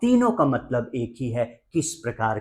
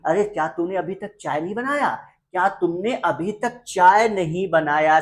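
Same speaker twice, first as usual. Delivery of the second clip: mildly angry, higher-pitched scolding; scolding mother; 5 semitones higher than usual. Acted. Mother to son over unmade tea, scolding. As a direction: play an exasperated mom telling someone off. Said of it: "अब mummy को गुस्सा आ गया, डांटने लगी".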